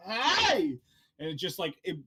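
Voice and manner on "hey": sudden loud high yell of "Hey!"; scream. Acted. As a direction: blast the word out like a thunderclap. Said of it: "this scream that goes".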